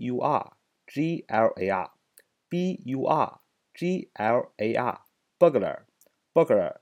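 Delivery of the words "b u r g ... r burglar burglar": burglar said slowly with BUR punched hard; stress on the first syllable. Shown as a demonstration. Teacher models burglar for students, stressing BUR. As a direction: hit BUR in burglar and let glar fall away. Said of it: "重音在最前面啊".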